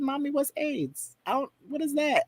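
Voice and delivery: put-on confused eight-year-old. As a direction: plead like a baffled little kid. Voicing himself at eight years old.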